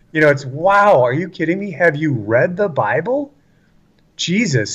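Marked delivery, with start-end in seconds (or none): 0.4-3.3 higher-pitched, exasperated questioning; acted incredulity. Answering critics who doubt Jesus talked so, incredulous. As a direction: retort in mock astonishment, pitched up.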